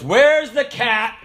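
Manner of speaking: slow, lightly voiced stern sergeant; a hint of an angry instructor. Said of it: "But he goes".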